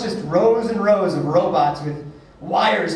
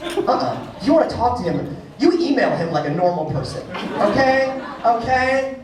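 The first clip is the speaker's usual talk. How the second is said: mock scolding mother; 3 semitones higher than usual. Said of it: "She goes".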